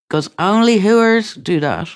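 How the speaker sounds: imitating a scornful mother's warning. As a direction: sneer it like a disapproving mother. Mocking echo of mother's words.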